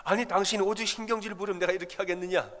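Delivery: a hint of a husband's annoyed retort. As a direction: snap back at the wife, lightly acted. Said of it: "남편이 또 받아칩니다".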